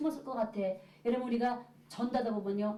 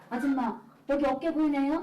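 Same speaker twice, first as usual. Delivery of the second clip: calling out; 4 semitones higher, 6 dB louder than usual. Retold or imitated. Catching hidden woman under window.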